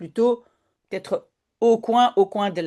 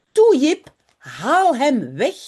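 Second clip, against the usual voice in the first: higher, louder urgent cry at Jip; urgent plea; 3 semitones higher, 5 dB louder, slower than usual. Acted. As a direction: beg him to pull the dog away. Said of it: "gilt Janneke".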